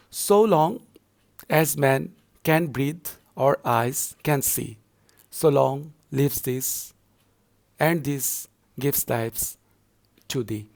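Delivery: slow, measured reading broken into feet; deliberate teacher's scansion; scanning verse. Shown as a demonstration. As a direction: recite the verse slowly, pausing after each small group of syllables. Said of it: "I have scanned the whole poem".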